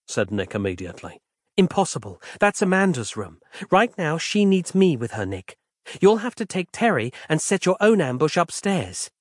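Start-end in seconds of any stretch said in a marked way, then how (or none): 1.5-9.1 higher, measured woman's voice; lightly voiced patient former editor; Roz, calm and patient. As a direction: explain the situation gently. Roz's voice.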